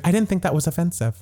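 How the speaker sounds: breathy mock whisper; whispered imitation of the housewife; whispered quote. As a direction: hush it like an innocent excuse. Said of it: "And she's like".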